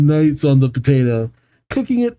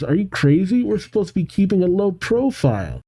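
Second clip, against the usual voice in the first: scolding; 6 semitones higher than usual. Acted. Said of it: "Crystal says".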